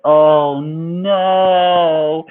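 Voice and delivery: loud, high drawn-out dismay. Retold or imitated. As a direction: cry out in mock embarrassment. Embarrassing song pops up.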